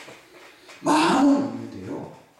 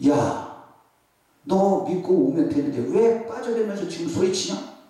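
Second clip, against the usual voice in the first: mock scolding; 3 semitones higher than usual. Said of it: "이렇게 하지 않았어요".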